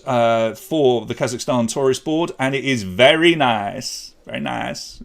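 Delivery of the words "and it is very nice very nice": put-on a light, slow Borat-style Kazakh accent on very nice. Quiz host jokes about the Kazakhstan tourism slogan in a light Borat accent. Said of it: "doing a Borat accent right now".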